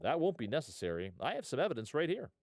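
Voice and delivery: put-on a keen young sleuth urging a friend; young heroine voice. Game heroine voiced by streamer.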